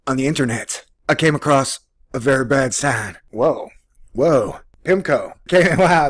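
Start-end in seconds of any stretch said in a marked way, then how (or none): none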